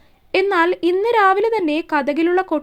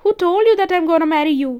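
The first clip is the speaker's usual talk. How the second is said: slow, weighty, every word set down; a deliberate, serious rebuke; grave and stern; 3 dB louder, much slower than usual. Acted. Shiva cutting off Isha's marriage claim, slow and grave. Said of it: "അവൻ്റെ ശബ്ദം വീണ്ടും ഒന്ന് ഗൗരവത്തിലായി".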